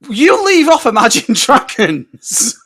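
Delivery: loud, high, drawn-out protest; mock outrage. Fan scolding a friend who insulted the band, mock-outraged. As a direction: leap to the band's defence in mock indignation.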